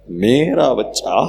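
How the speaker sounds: drawn-out, slow parental pride; doting parent. Acted. Parent of class topper claiming the child, doting drawl. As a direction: gush slowly over your own child.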